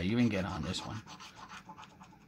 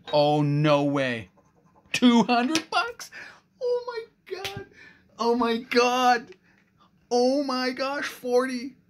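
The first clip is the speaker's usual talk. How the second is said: much higher and louder, slow stunned cries; real excited disbelief; 10 semitones higher, 5 dB louder, slower than usual. Real, not acted. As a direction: gasp it out, still reeling from the win. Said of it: "You know I get excited".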